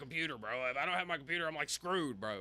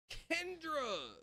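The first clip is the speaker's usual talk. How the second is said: sudden high yell of a name; 13 semitones higher than usual. Real, not acted. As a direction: yell her name out of nowhere. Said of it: "You just screamed my name".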